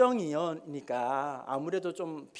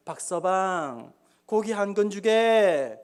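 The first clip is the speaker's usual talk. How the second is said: slow, drawn-out courteous request; kindly nobleman asking politely; warm, kindly; 4 dB louder, much slower than usual. Acted. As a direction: address him gently with stretched words. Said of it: "좀 따뜻하게 친절하게".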